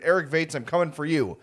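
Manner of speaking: loud hyped promo call-out; wrestling promo. Pretend. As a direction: hype it like a wrestler calling out a rival. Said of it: "This is a wrestling promo now?".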